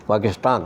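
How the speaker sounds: پاکستان said with a retroflex ٹ instead of ت; with a hard T. Shown as a demonstration. Showing how English speakers say Pakistan's T. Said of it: "ٹے سے".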